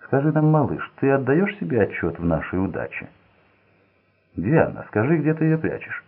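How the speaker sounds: menacing interrogation. A narrator's reading. Frank pressing Steve.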